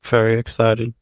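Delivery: hesitant, underwhelmed show of excitement; unenthusiastic. Real, not acted. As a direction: claim excitement with little enthusiasm. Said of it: "can you sound more excited".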